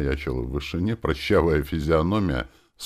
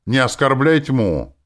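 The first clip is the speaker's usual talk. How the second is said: higher, louder outraged shout; yelling; 7 semitones higher, 6 dB louder than usual. A narrator's reading. Nastya yelling at the hero in his mind, outraged. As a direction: scold him hard for insulting darkness. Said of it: "заорала Настя".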